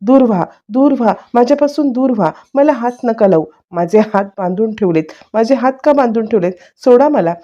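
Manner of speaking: mildly acted frantic pleading to be left alone; mock frantic yelling. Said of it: "आता वेड्यासारखी ओरडायला लागते".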